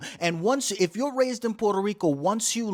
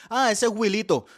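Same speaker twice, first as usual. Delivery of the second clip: neighbor recognizing; 5 semitones higher, 5 dB louder than usual. Retold or imitated.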